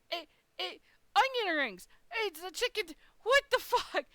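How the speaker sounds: high, exasperated squawk of disbelief; retold outrage. Retelling the botched onion ring order, high exasperated outrage.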